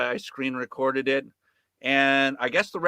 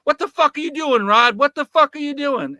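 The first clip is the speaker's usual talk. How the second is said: high, loud imitation of the host freaking out; hammed-up alarmed shout; mock panicked yell; 9 semitones higher, 8 dB louder than usual. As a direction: play him losing it. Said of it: "But he's like".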